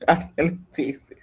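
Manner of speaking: atelectasis, weight on the first A, laughing lightly; emphasis on the A. Shown as a demonstration. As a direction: lean on the A of atelectasis with a chuckle. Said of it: "I put the emphasis on the A".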